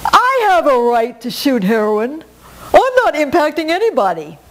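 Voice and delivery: defiant woman. Retold or imitated. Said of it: "a woman said to me".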